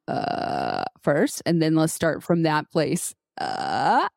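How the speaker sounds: very low creaky grumble; grovelly voice. Shown as a demonstration. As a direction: rumble it low and gravelly. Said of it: "grovelly sound".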